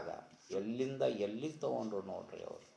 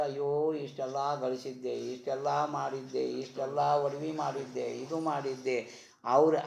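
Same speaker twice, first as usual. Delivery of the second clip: mock wail, pitched up, running on item after item; acted lament; 4 semitones higher, 3 dB louder than usual. Preacher voicing one who must leave his earnings behind, acted lament. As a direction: bemoan it like one forced to leave everything. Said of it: "ಬಿಟ್ಟು ಹೋಗೋಕ್ಕಾಗಿ ಅಳ್ತೀವಿ".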